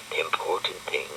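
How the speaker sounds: soft unvoiced whisper to himself; inner thought. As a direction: think it under the breath. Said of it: "he thought".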